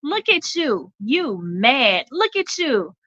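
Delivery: high, teasing singsong; mocking reel voice. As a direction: point and gloat like the DJ. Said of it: "He says".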